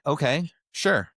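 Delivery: slow, high, mock-agreeing okay; sarcastic okay. To people calling it illness, sarcastic agreement. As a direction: drag it out like you don't buy it. Mocking reply to critics.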